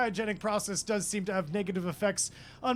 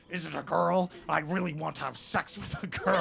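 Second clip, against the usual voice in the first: lightly voiced blustering president; slightly louder, a hint of an old statesman; Richard Nixon; 4 dB louder than usual. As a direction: play an eager, awkward politician lightly. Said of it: "Richard Nixon turns around and goes".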